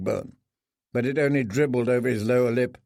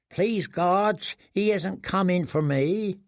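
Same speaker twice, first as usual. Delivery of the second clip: frightened prayer; 5 semitones higher, slower than usual. Acted. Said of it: "he prayed".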